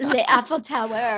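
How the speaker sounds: lightly hammed French accent; mock French. Cohost joking about the actor's accent, mock French. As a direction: play at a stereotypical Frenchman. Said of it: "I don't know if that's my French".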